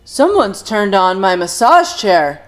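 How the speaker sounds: loud booming dad voice; father bellowing in outrage. Acted. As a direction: bellow it across the room. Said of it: "he bellowed".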